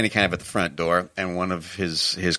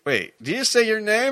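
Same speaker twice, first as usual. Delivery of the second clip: high-pitched double take; acted incredulous question; 14 semitones higher than usual. Cop startled the suspect knows his colleague, acted incredulity. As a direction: ask it in mock disbelief.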